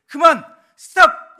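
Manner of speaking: two explosive high commands; very loud, high-pitched refusal; shouting. Shown as a demonstration. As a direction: shout each word as a hard stop. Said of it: "이렇게 소리치는 건".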